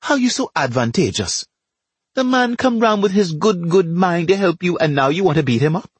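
high-pitched, reproachful wife; a touch of wifely reproach; lightly scolding. Acted. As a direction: climb high in mild indignation. Wife scolds her husband.

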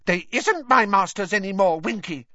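high, loud elf voice standing his ground; a little elf talking back defiantly; Dobby answers Winky defiantly in a high elf voice; defiant house-elf. Acted. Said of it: "said Dobby defiantly".

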